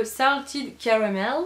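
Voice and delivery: slow English words in a French accent; superbe accent anglais. Real, not acted. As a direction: pronounce it carefully with a French-flavored English accent. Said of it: "avec mon superbe accent anglais". (accent anglais à la française, prononcé lentement)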